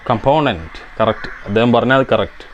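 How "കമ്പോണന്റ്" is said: കമ്പോണന്റ് echoed in an American English way, stress on the second syllable; കമ്പോണന്റ് in a light American accent; American pronunciation. Retold or imitated. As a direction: repeat കമ്പോണന്റ് the way the American clip says it. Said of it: "American pronunciation".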